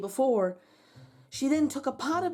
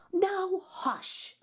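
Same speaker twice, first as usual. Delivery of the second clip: higher, lilting wife's voice; 8 semitones higher than usual. Acted. Wife urging her husband to face the giant, higher pitched. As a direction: coax him to stand and face it.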